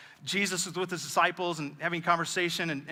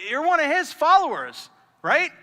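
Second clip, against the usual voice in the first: accusing bystander; 11 semitones higher, 10 dB louder than usual. Retold or imitated. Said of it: "People go".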